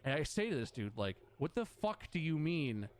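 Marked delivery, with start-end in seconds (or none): 1.4-2.9 retold swearing. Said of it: "I start swearing at this dude".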